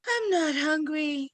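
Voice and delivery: tearful through sobs; crying. Acted. Jan to her parents after being left out, crying. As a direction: sulk it out while crying.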